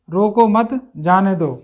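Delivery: रोको मत together, a short break, then जाने दो; pause after मत. Shown as a demonstration. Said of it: "हमने मत के बाद कॉमा लगा दिया है". (रोको मत के बाद रुककर जाने दो)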